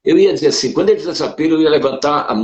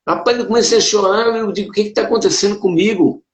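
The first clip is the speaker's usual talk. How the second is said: speaking higher, on the edge of tears; real feeling, pitched up and earnest; moved, voice rising; 6 semitones higher than usual. Real, not acted. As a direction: let the emotion push the voice up. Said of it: "eu me emociono".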